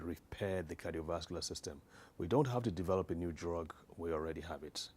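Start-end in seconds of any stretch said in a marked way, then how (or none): 0.0-1.8 "repair" set apart as the key word; stress on repair. Real, not acted. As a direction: lean on "repair", then let the phrase fall. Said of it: "I want to emphasize that word".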